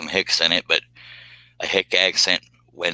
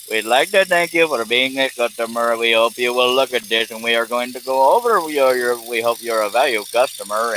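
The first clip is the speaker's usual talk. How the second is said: reading-a-script voice; 3 semitones higher than usual. Retold or imitated. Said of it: "sounds like they're reading".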